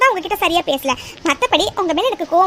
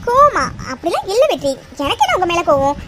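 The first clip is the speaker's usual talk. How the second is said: flustered denial. Acted. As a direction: protest as if wrongly accused. Flustered denial of being angry. (பதறி மறுக்கும் குரல்)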